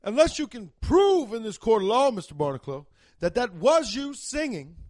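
a pompous judge laying down terms. Retold or imitated. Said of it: "the judge is gonna be like".

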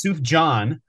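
a singer's first name as "SOOF-jahn"; non-fan pronunciation. Shown as a demonstration. Fan quoting outsiders, the wrong J pronunciation. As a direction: say the singer's name with a J, like "john". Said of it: "they're not a true fan".

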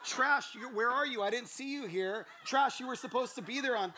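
high, loud, oblivious hollering; animated mock holler, punching the name; cheerful calling out. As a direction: call across the room to a coworker. Acting himself calling out to her.

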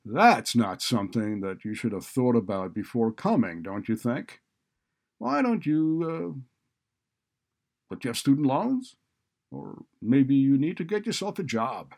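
loud scornful lecturing; sarcastic retort at high volume; sarcastic, needlessly loud. A narrator's reading. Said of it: "still in a sarcastic tone and louder voice than necessary".

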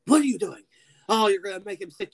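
high, loud scolding voice; Sam impression. Sam telling off the creature over rabbits, high scolding. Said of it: "He's just like".

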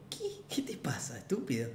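low, whispered mock challenge; under-the-breath challenge. What his look said to the seatmate, whispered challenge. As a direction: act it out softly, fading to a whisper.

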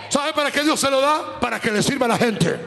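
impassioned preaching. Real, not acted. Preacher warning ministers not to charge anyone, impassioned exhortation. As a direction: press each warning home in a driving list. Exhorts congregation against profiting from gifts.

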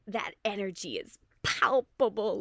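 real awed enthusiasm; palpable energy. Real, not acted. Rider describing the instructor entering the room, energized awe. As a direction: punch out the key word with awe. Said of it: "hear it in my voice".

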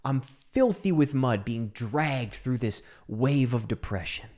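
usual speaking voice

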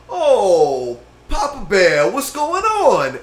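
high, slow put-on sweet voice; mock sweet greeting. Imitating his friend greeting him, high and sugary.

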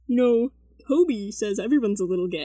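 lightly imitated seventh-grade boy; hesitant quote of a friend, close to own voice. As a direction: casually imitate a friend floating an idea. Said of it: "I love your impression of me".

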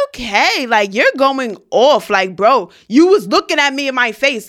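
heated. Retold or imitated. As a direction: push back at him, irritated but not shouting. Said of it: "this is how heated I am getting".

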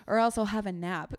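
a light, lilting upscale English lilt on a nap; mock upscale English. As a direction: say it like a posh English gent, lightly. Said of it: "it almost sounds like upscale English or something".

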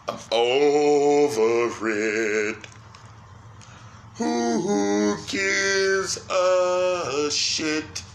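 mock dismissive. Mock dismissive slow drawl.

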